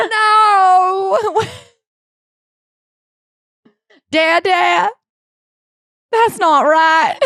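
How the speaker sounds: high, loud, drawn-out fake crying; mock wailing. Playing the hurt daughter answering Dada, mock wailing.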